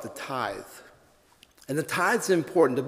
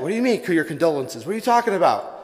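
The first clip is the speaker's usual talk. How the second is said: upset; 3 semitones higher, 5 dB louder than usual. Acted. Irishman protesting the bartender's condolences, mock outrage. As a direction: build from confused to indignant. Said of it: "The Irishman gets upset".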